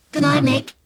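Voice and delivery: high, bright-spoken cheerful goodnight; cheery dad. Acted. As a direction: call goodnight cheerily up the stairs. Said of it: "he said all cheerily".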